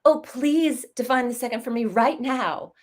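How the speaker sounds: acted breathless-lover entreaty; pleading admirer. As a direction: beg with mock urgency, stretching the words. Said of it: "but she would say".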